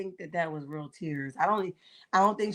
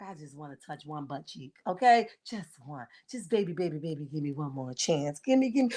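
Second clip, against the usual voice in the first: hammed-up begging for a touch; imitating a lustful man; 5 semitones lower than usual. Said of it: "He was like".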